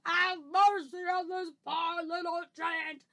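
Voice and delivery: loud, high, frantic pleading; screamed begging. Acted. Giant begs Jack for mercy, wailing in terror. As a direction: beg for your life in a wail. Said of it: "screamed the flesh lump eater".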